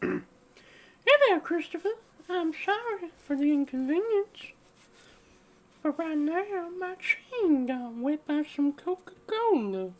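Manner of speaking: Family Guy style voice. Pretend. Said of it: "I've been doing that voice".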